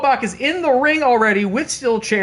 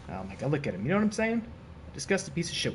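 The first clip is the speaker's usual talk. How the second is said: much softer, lower, under the breath; disgusted muttering; 6 semitones lower, 12 dB quieter, faster than usual. Real, not acted. Streamer sneering at the rival on screen, muttered disgust.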